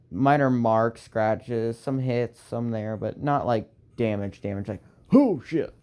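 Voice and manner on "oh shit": sudden high, loud curse; startled curse. Acted. Ship girl cursing in surprise at the damage. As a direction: blurt it out in shock.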